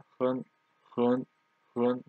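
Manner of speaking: 很 said with a rising second tone; second-tone demo. Shown as a demonstration. Teacher shows learners the tone change, 很 in second tone. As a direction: repeat 很 separately, each lifted as second tone. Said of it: "becomes second tone".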